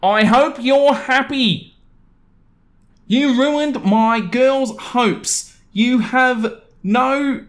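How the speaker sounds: high, slow mock angry husband; furious neighbor's note read in a high, slow mock voice; angry note-writer. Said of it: "glued to my door".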